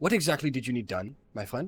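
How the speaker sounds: pressing, urgent delivery. Speaking in character to a fellow player, hand on their shoulder, in an urgent voice. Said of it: "quite in an urgent voice turn to you".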